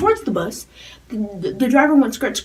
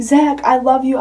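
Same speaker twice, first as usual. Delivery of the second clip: loud, high fan scream; screaming to a singer on the tour bus, loud and high; fangirl scream; 4 semitones higher, 7 dB louder than usual. Retold or imitated. Fan screaming at the bus, loud and high. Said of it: "I was screaming".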